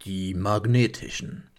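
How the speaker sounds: slow dramatic trailer announcer. Pretend. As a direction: drag out the title like a trailer. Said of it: "Muss ja die Trailerstimme machen".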